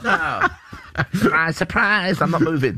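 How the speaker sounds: slow, sing-song stubborn refusal; mock stubborn diva. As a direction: drag it out, smug and immovable. Mocking a singer's refusal.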